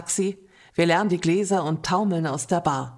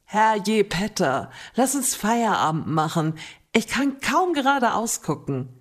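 laughing; 3 semitones higher than usual. Acted. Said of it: "sage ich lachend".

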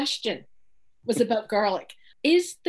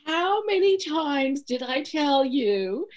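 mock scolding; 4 semitones higher than usual. Former mentor scolds about deadlines.

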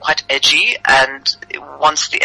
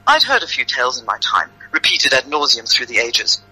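measured, deliberate storytelling; story narration. A narrator's reading. Author reads her tale to the hosts, measured narration. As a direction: narrate it evenly, phrase by phrase.

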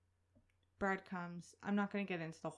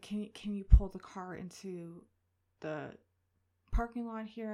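a loud, raised demand from the officer; officer's loud call; 10 dB louder than usual. Retold or imitated. Officer orders the shaken pregnant driver to move her car, called out loudly. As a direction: call it out firmly, much louder and rising. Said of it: "she's like".

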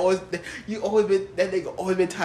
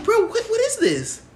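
high-pitched, drawn-out disbelief; slow, incredulous mock complaint; baffled retold reaction; slower than usual. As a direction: imitate being totally baffled, slowly. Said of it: "I'm like".

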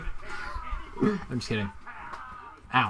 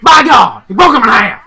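high, loud wrestling announcer yell; J R impression; 9 semitones higher, 6 dB louder than usual. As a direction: scream it like a ringside announcer. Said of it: "That was my J R impression".

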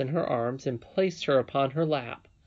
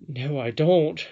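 slow, louder, offended refusal; 2 semitones higher, 4 dB louder, slower than usual. A narrator's reading. Curdie answers the princess's challenge, slow and offended. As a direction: draw out the denial, affronted. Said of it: "in an offended tone".

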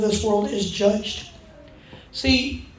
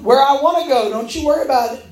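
mock defiant retort; 3 semitones higher, faster than usual. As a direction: brush him off with playful defiance. Acted quarrel with husband.

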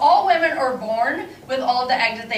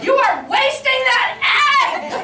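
high, loud scolding; mad Aunt Flo; 12 semitones higher, 4 dB louder than usual. Retold or imitated. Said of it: "She's like".

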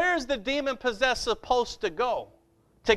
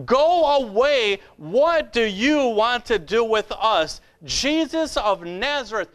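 mild demon cry. Retold or imitated. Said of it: "he cried out at the top of his voice".

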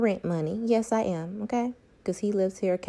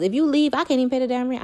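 higher and louder, a mock panic; mock panicked whine; 6 semitones higher, 7 dB louder, faster than usual. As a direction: play the helpless partner, overdone. Mock voicing a dependent partner.

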